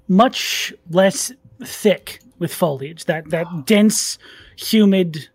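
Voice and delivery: slow, drawn-out scene setting; game master narration. Acted. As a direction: paint the jungle slowly for the table.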